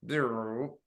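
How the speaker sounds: lightly imitated buzz of the tape stopping; tape rewind buzz. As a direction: buzz like tape whirring to a halt. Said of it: "all of a sudden you go".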